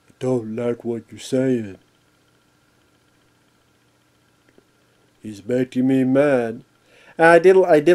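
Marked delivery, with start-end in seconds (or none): 0.2-6.6 quiet, soft, big tough-guy brute voice. Describing a big guy character called Bones, the speaker imitates him: Bones impression. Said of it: "he talks like this".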